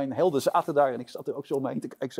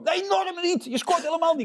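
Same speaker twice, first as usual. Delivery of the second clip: mock angry yell, much higher and louder; retold shouting; 6 dB louder than usual. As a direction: imitate the boss snapping back in a rage. Kees shouting back at intern. (nagespeeld boos geschreeuw, veel hoger en luider)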